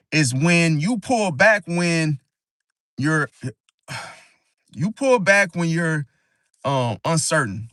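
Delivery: halting, stumbling restarts; stuttering. Real, not acted. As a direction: stumble over the words. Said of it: "I'm stuttering like a damn".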